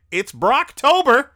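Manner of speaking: high, loud, drawn-out mock cheer; slow it down and holler like a corny fan. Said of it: "some corny people were saying".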